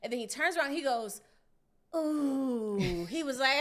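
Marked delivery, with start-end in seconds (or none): 1.9-3.1 higher, louder mock gasp of shock; startled brother going ooh. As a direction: recoil at the sight of the hair. Brother reacts to chopped hair.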